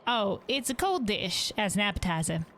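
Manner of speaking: innkeeper voice. Acted. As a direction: greet the guest like a caring innkeeper. Innkeeper describing dishes.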